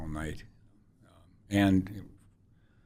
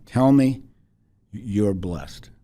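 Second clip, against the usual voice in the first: put-on firm Liberian accent; 3 semitones higher, 9 dB louder, much slower than usual. Woman pressing the wife in the hallway, loud firm Liberian accent. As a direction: insist loudly in a Liberian accent. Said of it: "She was very firm".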